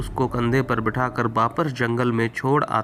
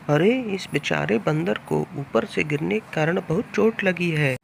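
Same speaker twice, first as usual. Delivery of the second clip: lightly raised, sympathetic woodcutter voice; pitying woodcutter; 4 semitones higher than usual. Acted. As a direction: feel sorry for the hurt monkey. Woodcutter pities monkey.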